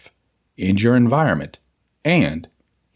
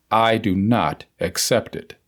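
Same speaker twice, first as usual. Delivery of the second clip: firm but gentle; 2 semitones lower than usual. Shown as a demonstration. Reader models a mental denial for listeners, firm but gentle. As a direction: state it firmly with infinite gentleness. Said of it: "Say it firmly, but with infinite gentleness".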